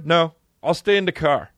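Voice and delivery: put-on babyish, stubborn refusal; mock little kid. Kid refuses mom outside the cinema, babyish. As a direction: play a child who won't budge. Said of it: "If I was a kid".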